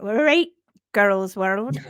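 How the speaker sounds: lightly imitated Wiltshire accent, laughing; a playful hint of a Wiltshire accent. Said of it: "He says in his Wiltshire accent".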